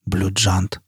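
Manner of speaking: low, soft mumble; dazed, hushed and low; muttering. A narrator's reading. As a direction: mutter it to yourself. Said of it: "пробормотал он".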